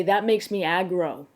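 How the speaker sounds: slow, lightly put-on Australian accent; a hint of mock Australian; Aussie saying. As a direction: draw it out like an Aussie. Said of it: "As an Aussie would say".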